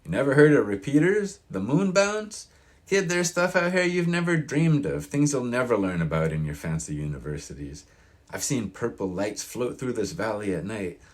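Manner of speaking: put-on high, loud, worked-up old-timer; rising to a fervent pitch about strange lights; indignant old man. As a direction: scoff at the college kid, then spin the tall tale. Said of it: "Lenny frowned".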